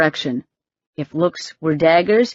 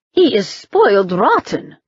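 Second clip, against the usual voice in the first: barked retort; 4 semitones higher than usual. Acted. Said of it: "Yevdokia barked".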